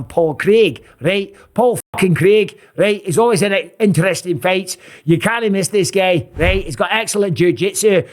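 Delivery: hammed-up Scottish brogue; bad Scottish accent. Commentator hyping Paul Craig, in a bad Scottish accent. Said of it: "That's my bad Scottish accent".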